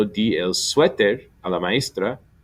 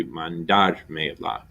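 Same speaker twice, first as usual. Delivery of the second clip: mandarme la with DAR kept strong; stress stays on dar; 3 semitones lower, much slower than usual. Shown as a demonstration. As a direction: keep the weight on DAR in mandarme la. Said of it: "where it's gonna be still anyway".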